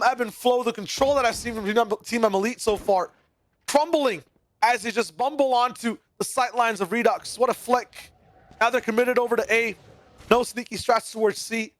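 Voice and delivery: building hype play-by-play; esports caster. Acted. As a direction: call every shot with rising energy. Live play-by-play casting.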